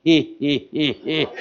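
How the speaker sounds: quiet little "hee hee" snicker; mimicked giggle. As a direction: imitate giggling to yourself. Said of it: "I just started going".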